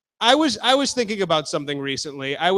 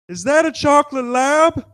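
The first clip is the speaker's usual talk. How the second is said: goofy grown man; 9 semitones higher than usual. Retold or imitated. Stranger rephrasing his question about the dog, high goofy voice. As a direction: ask it like an overeager stranger. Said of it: "and goes".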